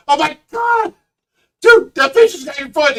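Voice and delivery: dad panicking at the fish; freaked-out yell. Retold or imitated. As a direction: shriek in alarm. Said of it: "I'm like".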